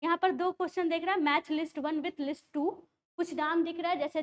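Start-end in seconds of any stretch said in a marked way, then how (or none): 1.2-2.8 very slow, word-by-word reading of the question; slow exam reading. Shown as a demonstration. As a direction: read it out slowly, the way you shouldn't in the exam. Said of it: "तो जैसे मैं ये कर रही हूँ".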